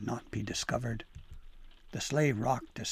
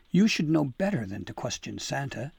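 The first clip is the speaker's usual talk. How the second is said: tart retort; 2 semitones higher, 4 dB louder than usual. Acted. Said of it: "Dabble D countered tartly".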